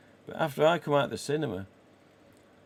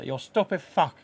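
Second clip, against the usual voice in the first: loud Tony Montana snarl, higher; a louder, higher mock gangster line; Al Pacino impression; 5 semitones higher, 5 dB louder than usual. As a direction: bark it like Scarface. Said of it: "Tony Montana".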